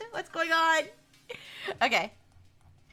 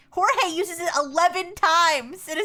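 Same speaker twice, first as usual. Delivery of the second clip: laughing; 6 semitones higher, 6 dB louder than usual. Real, not acted. Reading chat stat, laughing.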